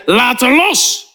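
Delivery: drawn-out, deliberate order; slow, weighty command; slow insistent command. Retold or imitated. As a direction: spell it out slowly, unyielding. Third insistence against the protesting woman.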